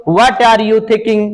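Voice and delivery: slow, spaced words; slow classroom dictation. Shown as a demonstration. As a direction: dictate slowly for pupils to write. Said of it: "slow dictation of English".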